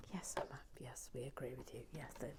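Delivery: low, hushed pretend chorus; softly murmured mock agreement; pretend audience reply. Audience agreeing with Emma, played hushed by herself.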